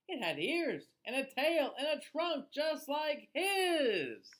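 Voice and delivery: put-on lively, sing-song read-aloud for children; storybook reading. A narrator's reading. Reading a rhyming book to children, lively storyteller voice. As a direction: read it like bedtime story time.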